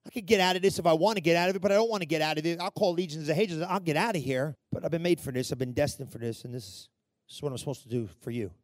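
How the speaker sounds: low, hushed, intimate confession; resolved acceptance. Acted. Jesus on the cross speaks to you, quietly resolved. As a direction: drop down soft and low, fading further.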